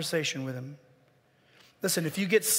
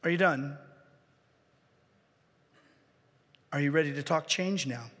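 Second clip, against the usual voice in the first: gentle patient God; 5 semitones lower, 4 dB quieter than usual. Acted. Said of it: "he'll say".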